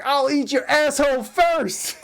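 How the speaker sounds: laughing, high mock Tyson line. Imitating Tyson's threat while laughing. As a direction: quote Tyson through a laugh. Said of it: "He's like".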